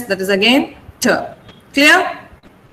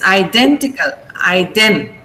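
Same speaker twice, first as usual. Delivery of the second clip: identical with DEN stressed, lower pitch; 4 semitones lower than usual. Shown as a demonstration. Teacher models identical, weight on DEN. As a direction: lean on DEN in identical and Iden. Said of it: "Stress is on den".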